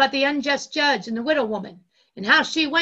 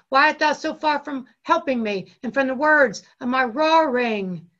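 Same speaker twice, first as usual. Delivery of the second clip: loud, raised preacher's reading; mild roar; 3 semitones higher, 6 dB louder than usual. Acted. Preacher voices Jesus roaring to God, loud but restrained. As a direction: read it out forcefully, a restrained roar. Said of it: "Jesus is roaring".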